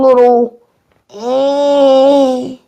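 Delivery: drawn-out high twangy noise; regional twang noise. Shown as a demonstration. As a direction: stretch "little" and slide into a sustained "eh". Imitates the DMV's sound.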